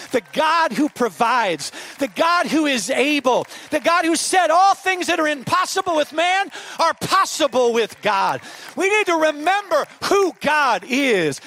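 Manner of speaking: loud, slow, high proclaiming; full-force preaching. Acted. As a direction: preach it out to the crowd.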